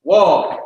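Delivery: WA as one long, open syllable; demonstrated syllable. Shown as a demonstration. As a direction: draw out WA with the pitch arching. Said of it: "we got accents on ours".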